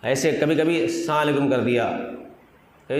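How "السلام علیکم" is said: السلام علیکم with syllables swallowed; slurred greeting. Shown as a demonstration. Preacher shows how people botch السلام علیکم, swallowing syllables. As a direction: run السلام علیکم together, dropping the middle sounds. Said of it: "کبھی کبھی آپ نے دیکھا ہوگا، ایسے کر دیا".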